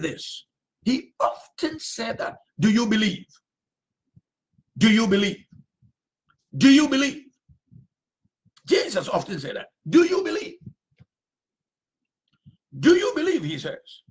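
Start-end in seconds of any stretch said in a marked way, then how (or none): 2.6-7.3 urgent question. Acted. Preacher repeating Jesus' question. 9.9-13.4 pressing question. Acted.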